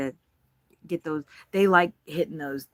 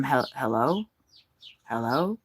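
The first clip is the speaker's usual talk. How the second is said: confused caller; 3 semitones lower than usual. Retold or imitated. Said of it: "the guy was like".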